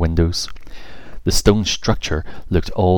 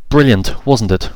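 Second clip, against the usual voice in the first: excited fairy; 4 semitones higher than usual. Acted. Emily enthusing about the band.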